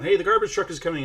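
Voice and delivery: a quick, loud call down the stairs; mock yelling the news from upstairs; retold yell. Telling about his wife, imitating her loud call downstairs. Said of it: "my wife yells down".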